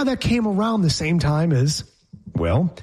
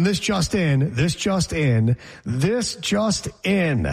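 mock news flash; much slower than usual. Mock breaking news announcement.

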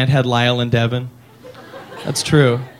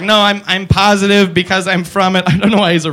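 robot alien; 3 semitones higher than usual. Retold or imitated. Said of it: "the alien's like".

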